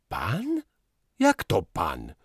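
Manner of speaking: despairing. A narrator's reading. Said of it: "z rozpaczą w głosie".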